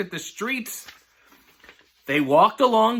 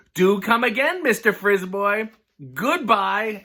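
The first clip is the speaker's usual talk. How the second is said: lightly voiced sugary farewell, a bit higher and slower; a hint of a prim lady seeing him off; mock polite hostess; 3 semitones higher, slower than usual. Missus Doodlepunk dismisses Frisboy sweetly.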